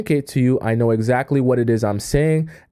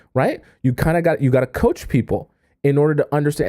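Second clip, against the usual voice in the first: ordinary talk, nothing marked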